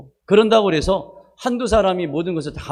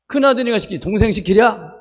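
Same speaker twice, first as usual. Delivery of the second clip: mother's retort; 4 semitones higher, 3 dB louder than usual. Retold or imitated. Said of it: "그때 저희 어머니 소리가".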